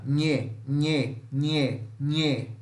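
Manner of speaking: nasal palatal "nhê"; nasal nh like in manhã; NH sound. Shown as a demonstration. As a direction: press the tongue to the palate on "nhê". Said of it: "o nosso N H".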